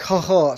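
mock scoffing "ha ha"; imitating a politician's dismissive scoff at the truth; Biden's scoffing laugh. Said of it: "scoffing laugh".

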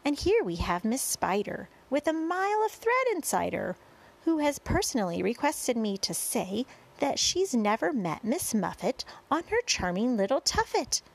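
lightly performed showman's rhyming patter; sing-song verse introduction. A narrator's reading. Boy introducing centipede to crowd, sing-song verse. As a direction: present each guest in bouncy rhyme.

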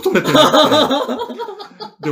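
high, laughing through the words. Real, not acted. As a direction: laugh while confessing the mistake. Laughing admitting lost backup.

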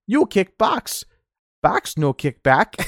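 high nasal-free squeaky Urkel with slow broken English; mock Urkel line, high then slow; Steve Urkel impression. Steve Urkel quoting a kung fu line, high and slow. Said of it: "Steve Urkel goes".

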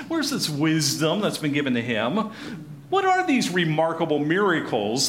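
mock-impressed, doubting questions; sarcastic. Shown as a demonstration. Hometown crowd doubts Jesus's wisdom and miracles, sarcastic. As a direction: read it with a sarcastic tone. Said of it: "read this with a sarcastic tone of voice".

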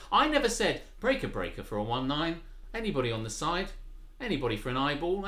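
CB call in a posh accent. Shown as a demonstration. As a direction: trucker lingo said in polite posh tones. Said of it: "in this kind of posh accent".

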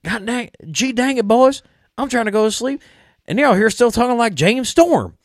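high-pitched, exasperated Southern gripe; hammed-up irritated Southerner; A J Styles, mad. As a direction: whine it high and loud in a Southern accent. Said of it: "when A J Styles gets mad".

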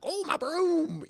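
high, slow crooning witch. Retold or imitated. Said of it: "she's like".

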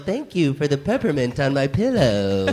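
slow, lordly voice as if he owns the place; lofty mock-grand self-announcement; grandiose hotel guy. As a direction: play a man who thinks he is the hotel. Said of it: "he's like".

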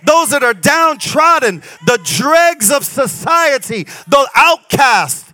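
full-force sermon, rising and ringing; preaching. Acted. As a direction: preach it out to the crowd.

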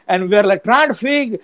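put-on high, heavily accented South Asian storyteller. Recounting a certificate giveaway gone wrong, South Asian accent. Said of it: "talking in your regular accent".

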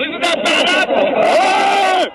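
dragged out, slow, warped playback; slowed-down edit. Acted. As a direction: stretch every word like a slowed tape. Remix edit repeats the line slowed.

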